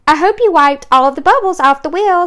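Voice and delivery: a touch of gentle amusement, voice lifted; gently laughing. A narrator's reading. Boy jokes with the nurse, gently amused. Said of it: "said Nick, gently laughing".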